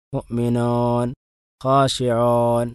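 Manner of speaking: മുഅ്മിനൂൻ and ഖാശിഊൻ with the long u shaded toward an o sound; waw like English o. Shown as a demonstration. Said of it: "ഇംഗ്ലീഷിലെ ഓ ... സദൃശ്യമായ രൂപത്തിൽ".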